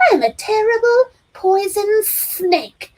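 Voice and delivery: slow, high hissing snake play; menacing snake boy. A narrator's reading. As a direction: slither the words like a snake. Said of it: "he swore".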